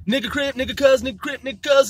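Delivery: rapid mock gang chatter; imitating Crip talk. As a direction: parody slang as a repeated filler. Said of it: "is how motherfuckers used to talk".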